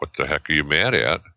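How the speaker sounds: imitated innocent, puzzled voice. Retelling how his wife looked at him and asked: Marcia imitated, innocently asking.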